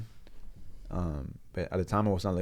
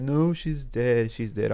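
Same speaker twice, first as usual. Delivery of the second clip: drawn-out, louder, higher mock wail; imitated crying; 4 semitones higher, 7 dB louder, much slower than usual. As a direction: retell a distraught cry, stretching the first word. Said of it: "like, crying".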